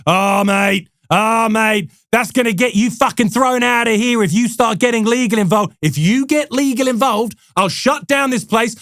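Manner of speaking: menacing Aussie boss, hammed up; mock Australian accent. CEO threatening the salesmen over legal, mock Australian accent. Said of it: "it's a terrible accent".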